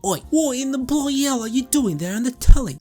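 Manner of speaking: high, loud mock Cockney British accent; terrible hammed-up British accent; bad British accent. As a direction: ham up a British butler. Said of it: "I can't do a fucking British accent".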